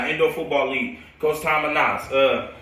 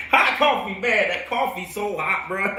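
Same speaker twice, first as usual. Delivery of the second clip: laughing; 4 semitones higher than usual. Real, not acted. Laughing at burning himself.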